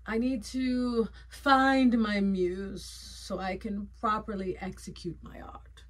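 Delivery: slow, hammed-up pretentious artist, sinking to a whisper at the end; lofty artiste voice fading to a whisper; mock artiste. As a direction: play a self-important artiste searching for a muse. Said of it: "I'm like, I'm an artiste".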